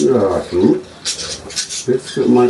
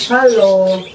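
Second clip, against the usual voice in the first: high singsong hello; 8 semitones higher, 3 dB louder than usual. Real, not acted. Greeting bird.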